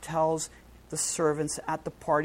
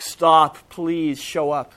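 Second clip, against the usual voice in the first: pleading cry; 9 dB louder, slower than usual. Retold or imitated. Preacher's own plea for mercy.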